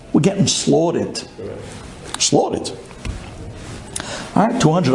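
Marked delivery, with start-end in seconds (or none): 2.2-2.7 whispered echo. Real, not acted. Echoed punchline.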